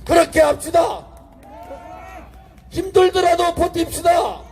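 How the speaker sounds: shouted, rising political oratory; roaring rally speech. Acted. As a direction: rouse the crowd at full voice. Rally speech at full force.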